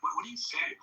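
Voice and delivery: confused boss. Retold or imitated. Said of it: "he was like".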